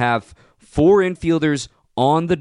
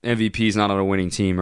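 mocking quote; 4 semitones lower than usual. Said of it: "I don't ever wanna hear about".

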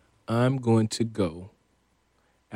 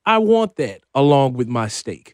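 excited; 3 semitones higher, 5 dB louder than usual. Pretend. Excited about menu items.

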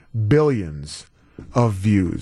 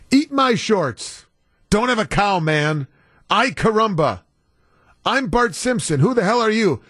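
Bart Simpson; 5 semitones higher than usual. Acted. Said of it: "from a little cartoon boy".

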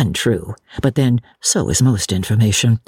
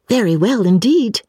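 put-on pleased young lady; 7 semitones higher than usual. Lucy replies to gushing lady.

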